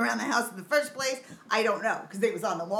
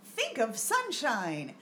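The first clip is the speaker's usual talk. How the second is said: mock positivity poster; 3 semitones higher, much slower than usual. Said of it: "things like".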